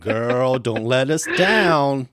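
loud, teasing mock warning; playful teasing pressure. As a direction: lean on her jokingly, no pressure. Teasing the guest about the role.

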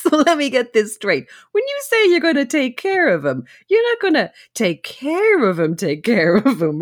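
a hammed-up New York mobster voice; O T G mobster accent. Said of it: "putting on an O T G accent as well".

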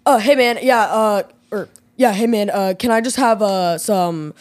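low dude voice ordering wings; lightly voiced low-pitched guy; guy impression. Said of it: "do your best, like, guy impression".

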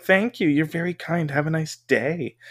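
lightly voiced overpolite stranger; polite scammer. Scammer thanking her, lightly mocked politeness. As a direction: thank her a bit too sweetly. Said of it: "And they're like".

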